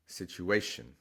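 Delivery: situation stressed sit-u-A-tion. Shown as a demonstration. Teacher repeats natural English stress, stress on A. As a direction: put the weight on the A in situation. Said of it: "the natural stress is on that A".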